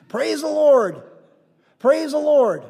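high, loud repeated holler; exuberant praise call. Retold or imitated. Resident praising among puzzled diners, loud exuberant call. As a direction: call praise out over everyone's heads.

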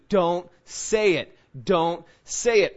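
a slow, urgent self-warning; inner warning. Retold or imitated. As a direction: plead slowly with yourself. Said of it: "everything in you is telling you".

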